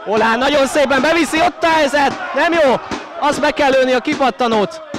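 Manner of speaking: high-pitched shouted goal call; shouting. Real, not acted. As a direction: scream it as the shot comes in. Shouting as shot hits the post.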